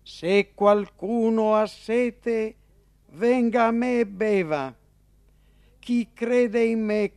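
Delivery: proclamato più alto e forte, molto lento; esclamazione. A narrator's reading. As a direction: grida l'invito a tutta la folla. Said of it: "esclamò dicendo". (Gesù alla festa esclama con forza)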